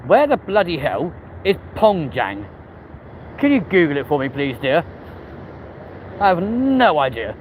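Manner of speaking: put-on half-joking posh English accent; mock posh. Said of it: "why we suddenly started talking posh".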